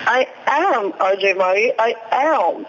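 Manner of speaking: put-on light Valley girl lilt. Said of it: "You're talking like a Valley girl now".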